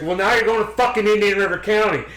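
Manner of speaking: loud, high-pitched mock scolding; imitated cussing out. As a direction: play the furious official laying down the verdict. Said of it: "she was cussing me out".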